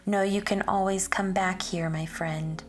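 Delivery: lilting, sing-song rhyming read-aloud; reading a picture book aloud. Acted. Teacher reading a rhyming book to children, sing-song storytelling. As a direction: read the rhymes to a class of children, bouncing along.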